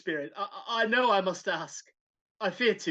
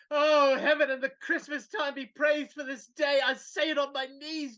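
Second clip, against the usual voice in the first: joyful shout; 3 semitones higher than usual. Acted. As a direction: shout your thanks to heaven. Scrooge's joyful Christmas morning.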